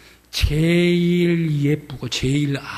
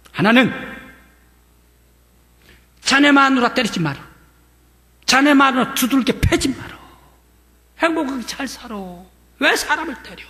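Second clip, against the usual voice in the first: 높고 크게 꾸짖듯; 단단히 다짐받으며 호통; 9 semitones higher, 4 dB louder than usual. Retold or imitated. 면장님이 꾸짖으며 조건 제시. (높고 크게 훈계하는 면장님)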